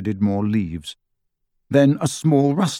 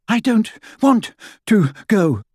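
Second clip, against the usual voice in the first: sour sister; 11 semitones higher, 3 dB louder than usual. A narrator's reading. Jealous sister refuses.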